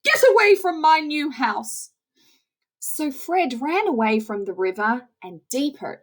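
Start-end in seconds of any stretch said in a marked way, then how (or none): 0.0-1.9 much higher, louder disgusted outburst; disgusted beaver. Acted. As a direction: shoo the skunk off in disgust.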